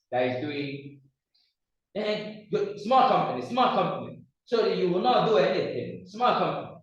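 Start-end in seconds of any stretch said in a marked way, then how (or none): 1.9-6.8 lightly imitated Chinese accent, higher pitch; Jack Ma. Mimicking a Chinese businessman's advice, light Chinese accent. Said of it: "That's how he speaks".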